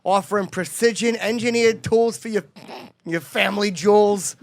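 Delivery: ad read. Acted. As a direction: read it like a host ad spot. Ad read for sponsor.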